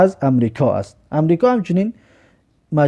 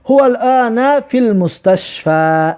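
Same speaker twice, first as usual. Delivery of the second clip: slow, raised, word by word; slow model reading; 6 semitones higher, slower than usual. Shown as a demonstration. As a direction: spell it out slowly for the class. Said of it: "ببینید".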